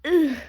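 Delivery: short, loud "ugh" of disgust; a loud, fed-up groan; disgusted grunt. Acted. Horse hears rivals gloating about first place, disgusted grunt.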